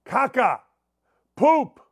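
normal talking voice

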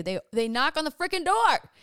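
loud, high-pitched indignation; worked-up storyteller's exclamation; exasperated outburst. Real, not acted. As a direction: raise your voice in sheer disbelief. Exasperated that her request was ignored.

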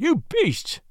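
sharp high outraged cry; cried out. A narrator's reading. Newcomer crying out at the brutal crowd, high and outraged. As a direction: fling it at the crowd in disgust. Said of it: "he cried".

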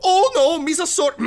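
very high, loud Gungan wail; cringing Gungan. Acted. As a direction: cringe and squeal out an apology. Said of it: "he cringes and he's like".

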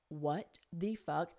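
slow, soft, baffled; stunned, hushed disbelief. Retold or imitated. Friend stares at her after the outburst, hushed disbelief.

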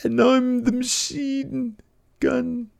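imitating Eddie Dennis's promo, high and slow; mock Eddie Dennis. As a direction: ham up the menace slowly. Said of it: "Eddie Dennis says something like".

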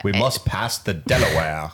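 lightly voiced mock statesman; a hint of a historical leader's address; George Washington. Showing co-host how he might talk, mock George Washington. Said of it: "How does he even talk?".

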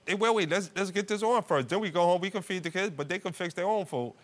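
pleading husband. Retold or imitated. Husband begs wife to stay at the hotel, high pleading voice. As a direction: coax her with a high, begging voice. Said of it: "I said".

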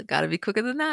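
put-on quick Brooklyn accent quote. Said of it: "Do you like the Brooklyn accent".

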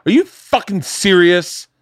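high, loud, drawn-out outrage; mock incredulous yell; retold angry yelling. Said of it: "She yelled at me".

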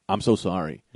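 low, soft sincere sorry; retold apology. Clerk apologizes two years later, softly imitated. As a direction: drop the voice to apologize gently. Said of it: "and he went".

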